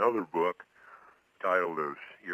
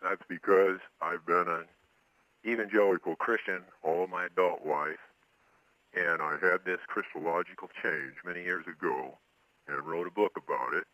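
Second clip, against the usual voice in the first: disguised voice. Real, not acted. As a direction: voice altered to hide identity. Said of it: "he is appearing here on this show with a disguised voice".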